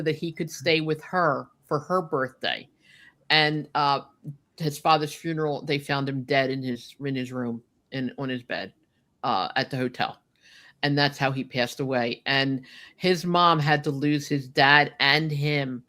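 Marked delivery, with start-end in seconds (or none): 5.6-10.2 softer, lower, voice catching with grief; holding back tears as the memory lands; choking up. Real, not acted. Telling a friend how Andre died, softer, choking up. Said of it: "Oh, now I'm gonna choke up".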